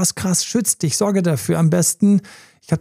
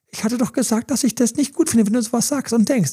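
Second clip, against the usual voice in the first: higher, whiny little voice complaining; the doubting voice pipes up again, higher and petulant; nagging inner voice; 6 semitones higher than usual. Retold or imitated. Inner voice scolding him for his thoughts, high and whiny. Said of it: "Und hinten die Stimme".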